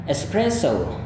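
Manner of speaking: espresso ending in a plain o, American English. Shown as a demonstration. Teacher demonstrates American espresso for comparison. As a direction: model American espresso with a pure o. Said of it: "gaya Amerika".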